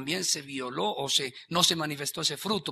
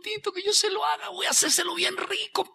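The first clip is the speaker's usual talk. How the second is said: put-on high, eager little child's voice; high eager child talking; 12 semitones higher, 5 dB louder than usual. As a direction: sound like a small kid excited to help. Child voiced in sermon story.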